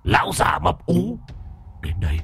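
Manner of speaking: goading, defiant dare; mocking provocation; taunting challenge. A narrator's reading. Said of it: "thậm chí còn buông lời thách thức".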